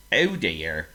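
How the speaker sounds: a pig sorry for his friend; lightly voiced pig; mild pig sympathy. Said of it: "said Oink".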